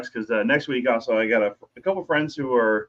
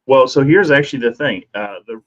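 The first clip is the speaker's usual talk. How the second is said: tinny mic; 6 dB louder than usual. Real, not acted. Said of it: "you sound tinny".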